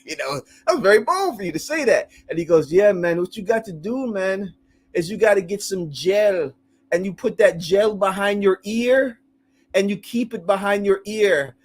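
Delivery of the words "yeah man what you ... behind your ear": imitated Jamaican accent. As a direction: imitate an older Jamaican man giving advice. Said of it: "like, Jamaican".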